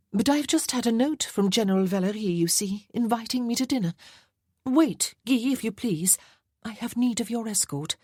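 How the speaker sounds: a vain society lady teasing about her wealth; playful marchesa. Acted.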